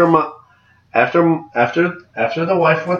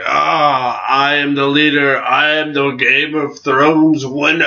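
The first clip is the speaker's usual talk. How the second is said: mock self-important proclamation; Sansa; slower than usual. Fan mocking Sansa's sudden change, hammed-up grand declaration. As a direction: lightly send up someone crowning herself leader, drawn out at the end. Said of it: "why is she all of a sudden like".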